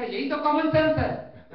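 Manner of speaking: loud, high, slow emphasis on sense; triumphant punchline. Acted. Speaker proclaims the answer to the crowd, slow and loud. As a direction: land the moral slowly.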